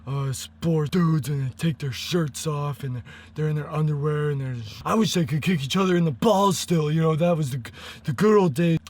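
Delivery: lightly voiced dumb jock; a hint of a dumb bro dude. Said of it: "sound like this dude that's like".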